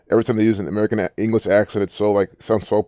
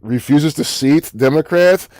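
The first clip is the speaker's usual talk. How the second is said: high, slow, disbelieving question; incredulous repeat; 6 semitones higher, 4 dB louder, slower than usual. Real, not acted. Vlogger balking at a news headline, incredulous. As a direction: read it back drawn out and higher, in disbelief.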